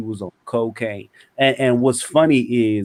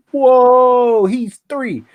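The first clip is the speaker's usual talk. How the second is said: louder disbelief; 12 semitones higher, 6 dB louder, much slower than usual. Retold or imitated. Repeats reaction, louder.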